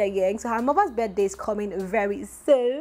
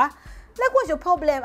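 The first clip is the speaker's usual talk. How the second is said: exasperated; 7 semitones higher, slower than usual. Real, not acted. Vlogger scolding the commenters, exasperated and high. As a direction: pitch leaping up in disbelief.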